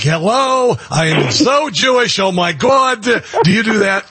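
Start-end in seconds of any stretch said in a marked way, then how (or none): 0.0-3.0 a light put-on New York Jewish accent, a bit slower; lightly hammed-up New York Jewish accent; mock Jewish accent. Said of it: "do you suddenly talk like this".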